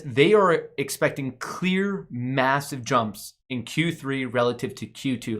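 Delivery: slow, stressed "They are expecting clear"; driving it home. Real, not acted. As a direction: hammer home "massive jumps in Q three". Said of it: "I need to drive that home".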